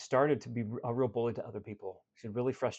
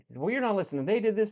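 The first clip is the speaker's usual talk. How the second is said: higher and louder, a mock indignant snap; retold angry protest; 8 semitones higher, 6 dB louder than usual. Client telling her coach she isn't listening, mock angry. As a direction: throw it back as an annoyed complaint.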